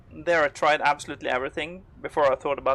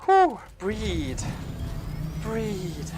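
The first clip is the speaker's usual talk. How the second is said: calming breaths; 3 semitones higher, much slower than usual. Real, not acted. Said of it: "my heart rate right now".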